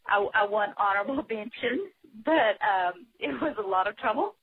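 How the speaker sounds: real laugh breaking into the words. Real, not acted. Caller laughing to host about winning honorable mention. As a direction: giggle through the news of the prize.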